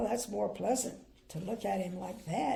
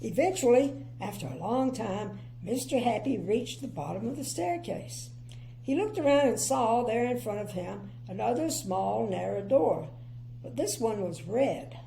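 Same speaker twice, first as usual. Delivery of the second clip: put-on clear, lively storybook reading for children; story narration. A narrator's reading. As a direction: read it like a bedtime picture book.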